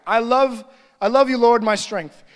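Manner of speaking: reading straight through without stopping; hurried reading aloud, no pause; quick skim reading. Shown as a demonstration. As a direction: rattle off the verse like a routine read. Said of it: "This is how often people read the Word of God".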